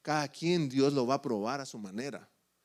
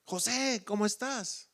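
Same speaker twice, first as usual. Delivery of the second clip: calling down; 5 semitones higher, slower than usual. Retold or imitated. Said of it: "Y le gritan".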